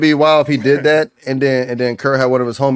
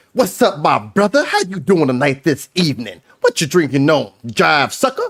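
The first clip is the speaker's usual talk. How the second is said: mock chameleon drunk. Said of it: "a drunk white man at the bar is a chameleon".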